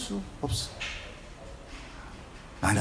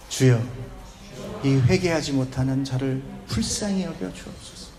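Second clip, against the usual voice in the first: prayerful plea; 6 semitones lower, 3 dB quieter than usual. Shown as a demonstration. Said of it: "한번 해봅시다".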